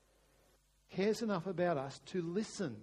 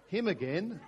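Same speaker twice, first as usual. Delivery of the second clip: mock exasperation, a touch loud; frustrated sigh; 5 dB louder than usual. Wife complaining about her husband, mock frustrated. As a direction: imitate a wife's weary complaint. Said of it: "sometimes in sighs of frustration".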